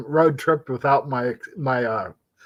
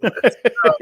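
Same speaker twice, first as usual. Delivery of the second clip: calling out; 12 semitones higher, 6 dB louder than usual. Pretend. Hurrying everyone out the door.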